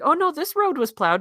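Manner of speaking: high, eager correction; excited protest. Retold or imitated. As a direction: insist the road was cleared. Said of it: "I was like".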